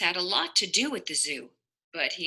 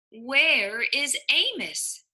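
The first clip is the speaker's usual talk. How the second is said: slow, puzzled higher voice; wondering animals; 5 semitones higher, slower than usual. Acted. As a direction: ask it with worry. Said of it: "the animals wondered".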